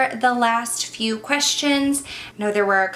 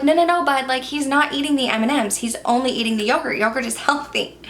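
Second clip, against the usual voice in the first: exasperated explaining; 4 semitones higher, faster than usual. Retold or imitated. Teachers to a stubborn kid, fast exasperated explaining. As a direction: quickly talk the kid down, half laughing.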